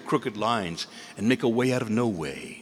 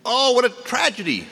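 high, loud hammed-up wail of pity; mock lament; 13 semitones higher, 6 dB louder than usual. Neighbors pity the farmer, hammed-up high lament. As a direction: overplay the gossiping neighbor's dismay.

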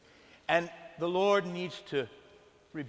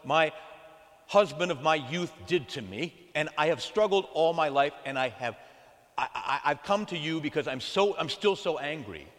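upset woman; 6 dB louder than usual. Retold or imitated. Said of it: "she says".

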